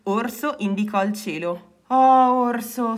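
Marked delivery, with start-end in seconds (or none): 1.9-3.0 touched sigh of admiration; moved little exhalation. A narrator's reading. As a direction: sigh the name out fondly. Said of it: "sospirò Rana".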